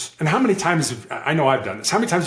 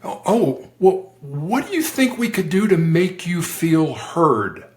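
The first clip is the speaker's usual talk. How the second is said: slow, higher-pitched, open question; curious; 4 semitones higher than usual. Shown as a demonstration. Negotiator inviting someone to feel heard, curious. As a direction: wonder it aloud, taking your time. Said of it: "we would always be curious".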